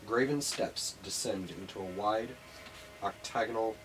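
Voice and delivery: scene-setting narration. Acted. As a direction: paint the chamber for the players. GM sets the dungeon scene.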